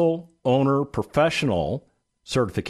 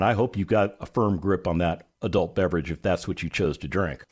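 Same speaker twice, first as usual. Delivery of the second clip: normal talking voice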